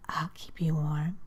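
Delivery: unvoiced breathy whisper in her ear. A narrator's reading. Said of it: "as he whispered".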